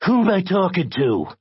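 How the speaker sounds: high, sharp demand; sharp, high-pitched caller. A narrator's reading. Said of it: "in a sharp voice that was eerily familiar".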